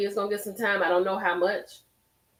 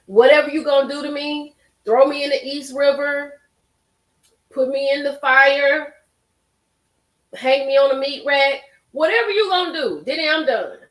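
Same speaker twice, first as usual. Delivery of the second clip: raised, higher pleading voice, begging to be let out; desperate plea; 4 semitones higher, 4 dB louder than usual. Retold or imitated. Host voicing witness to a rapper, pleading loudly. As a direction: read it as the witness who wants out.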